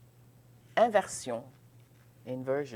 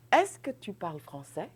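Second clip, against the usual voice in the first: "Est-ce que tu parles français?" with the voice going up at the end; rising question; 4 semitones higher, 4 dB louder than usual. Shown as a demonstration. Teacher to students, showing the rising question tune. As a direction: let "français" rise like a question. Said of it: "And then you go, you go up".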